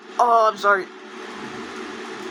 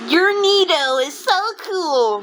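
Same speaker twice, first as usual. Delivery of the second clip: mock praise; 6 semitones higher than usual. Mocking a creature's praise.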